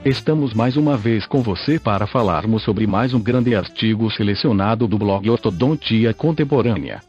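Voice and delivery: robotic synthesized text-to-speech voice. Real, not acted. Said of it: "falo através desta voz sintetizada". (voz sintetizada de computador antiga)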